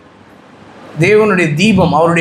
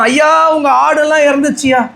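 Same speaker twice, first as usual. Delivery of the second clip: servant crying out the bad news, pitched up; panicked servant; 4 semitones higher than usual. Servant bursting in on Job with news, crying out. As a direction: call out to the master in alarm.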